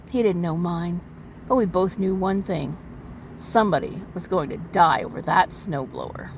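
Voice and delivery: overwrought noir narration; milk every line like pulp noir; hammy stage actor. A narrator's reading. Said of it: "as a dramatic reading".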